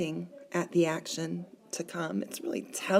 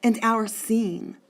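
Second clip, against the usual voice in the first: "And our scene" slowly, word by word; slow, deliberate "And our scene"; syllable-pair scansion; 3 semitones higher, 3 dB louder, slower than usual. Shown as a demonstration. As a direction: measure out "our scene" as two beats. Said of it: "two syllables with those two words".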